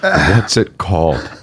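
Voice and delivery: slow, measured question; really calm. Retold or imitated. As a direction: ask with exaggerated composure, taking your time. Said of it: "really calmly, I said".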